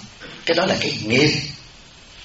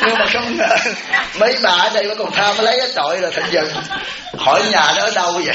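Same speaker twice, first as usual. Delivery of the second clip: laughing while telling; 5 semitones higher than usual. Real, not acted. Audience laughing at the charm story.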